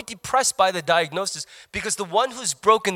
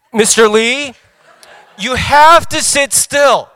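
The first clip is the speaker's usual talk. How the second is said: much higher, louder, very slow, exasperated; snooty technician over intercom; 9 semitones higher, 12 dB louder, slower than usual. Retold or imitated. Technician over the intercom, hammed-up exasperated scolding. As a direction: drag it out like a fed-up voice on a speaker. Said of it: "coming on the intercom going".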